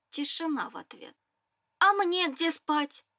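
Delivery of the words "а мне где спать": higher, slower indignant question; righteous indignation. Acted. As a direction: protest it, outraged and slow. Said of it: "возмутилась праведно".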